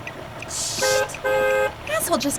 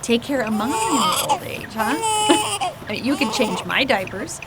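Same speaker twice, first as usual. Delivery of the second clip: put-on playful baby talk. Mother playfully chatting to crying baby.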